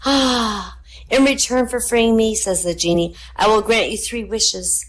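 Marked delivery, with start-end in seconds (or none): 0.0-2.4 high, grand genie voice. Acted. Genie speaks. 3.3-4.8 high, grand genie voice. Acted. Genie speaks.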